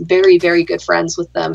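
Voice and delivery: dry sarcasm, deadpan; understated mock friendliness; sarcastic. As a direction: say it like you mean the opposite.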